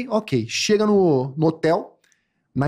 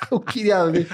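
mock whine. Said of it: "Ela gritava".

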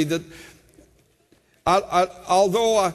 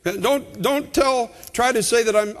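higher-pitched exhorting preacher; impassioned preaching; 6 semitones higher than usual. Real, not acted. Preacher pleading with listeners for perspective, impassioned preaching. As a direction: press the congregation hard, driving key words home.

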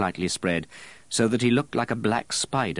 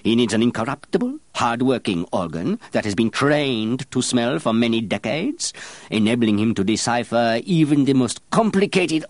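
rising grandeur; 5 semitones higher, 4 dB louder than usual. A narrator's reading. Baldini building to a proud climax.

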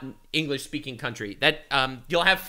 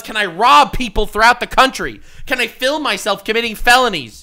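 mocking; 6 semitones higher, 10 dB louder than usual. Mocking the YouTuber's challenge.

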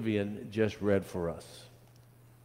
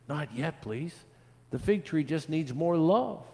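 put-on higher-pitched children's plea; pleading; 7 semitones higher than usual. A narrator's reading. Children beg the gardener for time, light pleading. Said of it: "The children pleaded".

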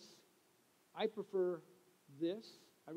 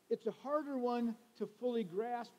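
mock joke take; 5 semitones higher, 5 dB louder than usual. Shown as a demonstration. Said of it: "Just kidding".

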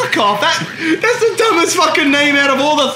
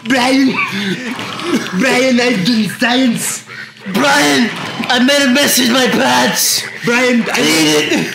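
mock calling out; slower than usual. Mock trailer of characters yelling for Brian.

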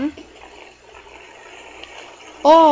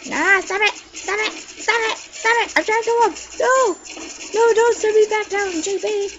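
whiny pleading; 7 semitones higher than usual. Real, not acted. Being pushed down in game.

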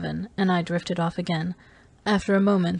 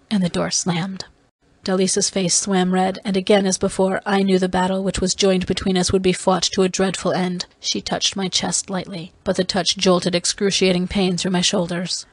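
usual speaking voice

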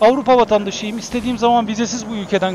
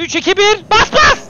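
climbing to a high, loud shout; excited countdown; 11 semitones higher, 5 dB louder than usual. Real, not acted. Gamer starting a race against rivals, excited countdown shout. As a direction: count down, then yell go.

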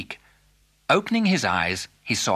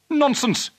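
much higher, outraged exclamation; indignant cry; 13 semitones higher, 4 dB louder than usual. Acted. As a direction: dismiss it as an outraged father. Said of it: "cried Mister Fitzwarren".

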